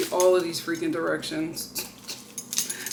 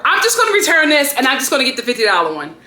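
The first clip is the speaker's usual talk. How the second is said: louder, fast fed-up declaration; fed-up rant; 5 semitones higher, 5 dB louder, faster than usual. Real, not acted. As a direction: blurt it out fast and loud, done with it. Fed up, announces return.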